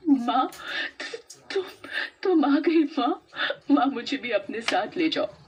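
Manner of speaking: tearful surprise. Acted. Pooja tearfully begs her ghost mother to take her. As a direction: stammer in shock, then beg her. Sees dead mother return.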